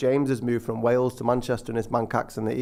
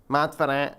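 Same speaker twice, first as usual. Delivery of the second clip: fake Manc accent; slower than usual. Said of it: "All that sort of high-pitched, nasally".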